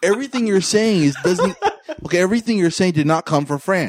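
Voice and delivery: exasperated, laughing through the words; exasperated protest. Real, not acted. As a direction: object in laughing disbelief. Exasperated rebuttal of friends' wrong guesses.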